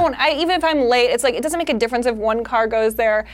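retold driver's exasperated outburst; exasperated rant. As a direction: demand to know why, worked up. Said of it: "It makes me insane. I'm like".

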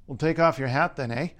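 Canadian accent with HAT pulled back toward "hot"; reply like a Canadian, backed vowel in HAT. Shown as a demonstration. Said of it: "the way Californians and Canadians say hat".

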